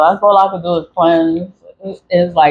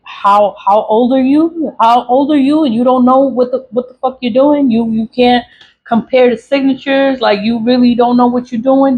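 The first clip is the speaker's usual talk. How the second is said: higher-pitched, exasperated dressing-down; incredulous scolding; 5 semitones higher than usual. Real, not acted. Venting at clerks who can't compare signatures, incredulous scolding. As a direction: take them to task in disbelief. Scolds incompetent employees as if present.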